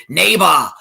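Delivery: Austrian "Neighbor" with an open, unrolled final "ba"; Austrian accent. Retold or imitated. Imitating Arnold saying "Neighbor" in an Austrian accent. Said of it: "in his Austrian accent".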